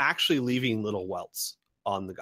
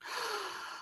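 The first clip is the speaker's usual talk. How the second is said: high delighted gasp; 12 dB quieter than usual. Acted. Merchant delighted by weapons question.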